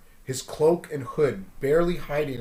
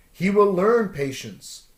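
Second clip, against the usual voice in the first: Ben Kenobi; 6 semitones higher, 6 dB louder, slower than usual. Acted. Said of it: "the voice of Ben Kenobi from out of nowhere".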